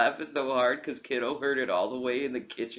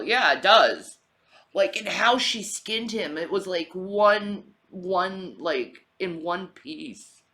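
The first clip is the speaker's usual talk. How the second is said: excited; 6 semitones higher, 10 dB louder, slower than usual. Real, not acted. Excited retelling of gory scene.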